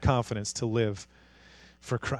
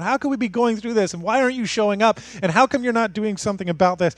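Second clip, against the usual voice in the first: higher-pitched, urgent questioning; crying out; 4 semitones higher, faster than usual. Retold or imitated. People asking God why he won't act, crying out. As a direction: plead in quick, exasperated questions. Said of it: "They're just crying out".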